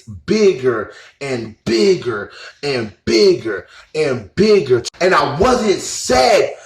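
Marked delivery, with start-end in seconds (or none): 0.0-4.8 unhurried, lingering repetition; slow, drawn-out build. Retold or imitated. Recounting his growing grin in meditation, slow and drawn out. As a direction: stretch each repetition slowly.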